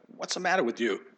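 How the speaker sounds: a hammed-up New York–New Jersey scold; New York accent. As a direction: ask it like a Jersey guy who's fed up. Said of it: "as if Jesus was from New York and New Jersey".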